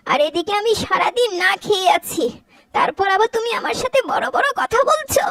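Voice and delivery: high, sharp scolding mother-in-law; angry scolding. Acted. Mother-in-law berates her son's wife, angry and shrill. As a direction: tear into the daughter-in-law.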